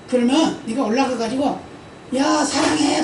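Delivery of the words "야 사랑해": higher sweet call; lightly shouted love; mock shout of love. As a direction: call it out like a child. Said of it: "그렇게 말해봐라".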